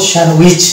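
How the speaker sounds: স্যান্ডউইচ as "sen-wich"; correct silent-letter pronunciation. Shown as a demonstration. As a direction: leave the D out of স্যান্ডউইচ. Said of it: "আমরা এই শব্দটিকে উচ্চারণ করব".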